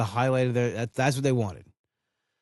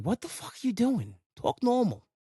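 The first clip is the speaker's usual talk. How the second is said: exasperated outburst; 8 semitones higher, 3 dB quieter than usual. Retold or imitated. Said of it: "I would be like".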